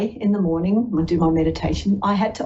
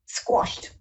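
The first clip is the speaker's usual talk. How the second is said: whispered word; 5 dB quieter than usual. Real, not acted. Emphatic word after long pause.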